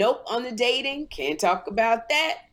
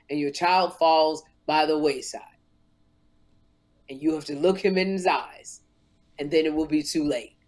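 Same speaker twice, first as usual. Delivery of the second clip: lower, measured Oprah voice; Oprah impression; 6 semitones lower than usual. Oprah counseling Sherri about her son, lower and measured. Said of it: "She said".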